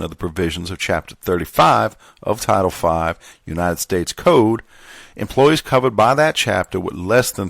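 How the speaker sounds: lightly voiced Southern gentleman accent. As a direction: read it formally with a hint of genteel Southern accent. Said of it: "back to the Southern gentleman".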